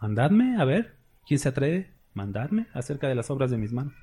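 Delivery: soft, dry ironic dare of God; ironic challenge. Shown as a demonstration. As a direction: say it as a quiet, mocking challenge: who dares. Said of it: "lo está diciendo en un tono irónico".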